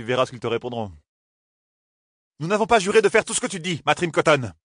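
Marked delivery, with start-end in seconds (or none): 2.4-4.5 higher, furious roar. Acted. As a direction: roar it at him. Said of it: "rugit Nineveh".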